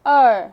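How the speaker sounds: अर said alone, loud; R sound demo. Shown as a demonstration. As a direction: sound out अर on its own, loudly. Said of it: "आर control sound". (अर की आवाज़ ज़ोर से)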